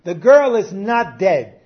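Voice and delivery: a preacher voicing Jesus sternly; commanding shout. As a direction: order the mourners out with force. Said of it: "he said".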